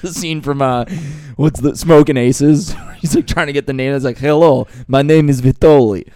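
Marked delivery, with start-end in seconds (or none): 4.2-6.1 hoarse movie gangster. Retold or imitated. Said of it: "make his voice more hoarse".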